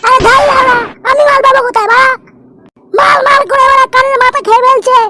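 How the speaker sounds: high, fast frustrated outburst; fed up, nearly whining; exasperated. Acted.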